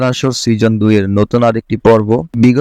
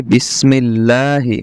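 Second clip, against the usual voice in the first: slow, drawn-out recitation; Quran recitation; much slower than usual. Shown as a demonstration. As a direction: recite with long held syllables for learners. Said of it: "আয়াত তিলাওয়াত করার চেষ্টা". (ধীরে টেনে তিলাওয়াত)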